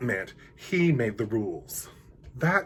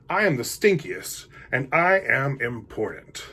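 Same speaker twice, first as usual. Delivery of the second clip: a touch louder, self-important decree; pompous stink bug; 2 semitones higher, 3 dB louder than usual. Acted. The stink bug lecturing all the animals, pompous. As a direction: puff yourself up and lay down the law.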